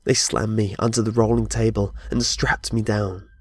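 usual speaking voice

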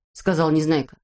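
ordinary delivery, nothing marked

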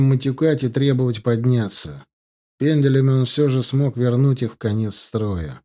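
ordinary talk, nothing marked

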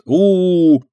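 high wind howl 'у-у-у'. Pretend. Dinka showing how the wind roars with her, high howl. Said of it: "так и ветер ревёт".

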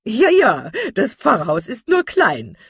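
put-on loud, chuckling-in-tone old lady; delighted and chatty; amused gossipy matron. A narrator's reading. Mrs Jennings amused. (vergnügte, laute Matrone)

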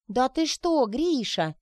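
high, loud indignant outburst; can't hold it in, burst out at him. Acted. Sonechka bursting out at Grisha, indignant. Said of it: "не выдержала даже Сонечка".

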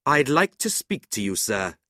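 high, loud, indignant challenge; angry. A narrator's reading. Brother confronting man who insulted his sister, angry. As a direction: demand a word, anger held in. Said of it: "Nicholas rose angrily".

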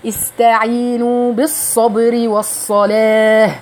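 slow chanted verse; tajweed recitation. Shown as a demonstration. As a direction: recite slowly with long vowels. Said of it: "اكسري بقى كويس".

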